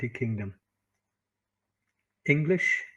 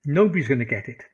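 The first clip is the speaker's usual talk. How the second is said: louder, punching nobody's; emphatic; 7 dB louder, faster than usual. Shown as a demonstration. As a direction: push Nobody's out hard and loud. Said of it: "repeats the line twice".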